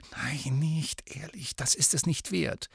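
urgent whisper; whispered plea to the boys. A narrator's reading. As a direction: hold them back in a whisper. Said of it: "flüsterte".

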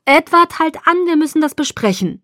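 high-pitched, insistent voice; urgent appeal. A narrator's reading. Alice urges Edward to pull over, insistently. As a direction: call his name sharply, then press him.

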